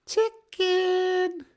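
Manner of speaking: high sing-song clucking jeer; mocking chicken taunt. Tree creature jeering at the cautious party, mock clucking. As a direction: cluck at them to provoke a fight.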